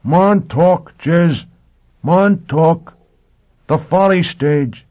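high, loud shout across the stage; desperate calling shout, high and loud. A narrator's reading. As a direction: shout for her across a vast windy stage. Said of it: "He lifted his voice to a shout".

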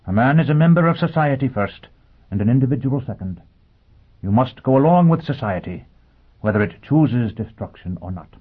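high, earnest robot voice; a machine preaching with conviction. Acted. Robot lecturing Foyle.

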